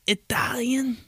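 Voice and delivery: high, whispery mock disbelief; incredulous people. Everybody asking the least Italian guy, incredulous mock voice. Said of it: "Everybody's like".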